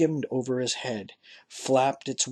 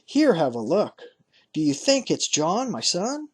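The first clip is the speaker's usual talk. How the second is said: higher, eager questioning; excited old father; 4 semitones higher, 3 dB louder than usual. Acted. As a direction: peer and hope it's his son. Father spots rider.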